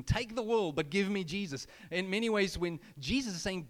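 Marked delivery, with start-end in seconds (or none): 0.0-1.7 raised, louder hymn line; proclaimed hymn line. Shown as a demonstration. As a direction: ring it out like a proclamation. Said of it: "this hymn that was written".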